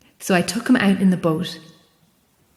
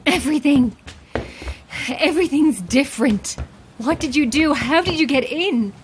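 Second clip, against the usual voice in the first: higher, rattled questions; scared and confused, voice pitched up; alarmed; 6 semitones higher than usual. Acted. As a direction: thrown by a changed room. Wakes to a changed lighthouse.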